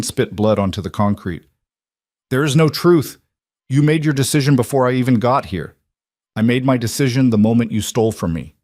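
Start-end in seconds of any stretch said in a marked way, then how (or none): 2.3-8.5 desperate outburst. Acted. Beaten son pleading with father.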